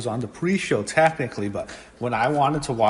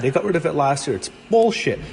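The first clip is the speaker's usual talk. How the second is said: angry rant; 4 semitones higher than usual. Real, not acted. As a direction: vent about it, really mad. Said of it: "I'm so mad".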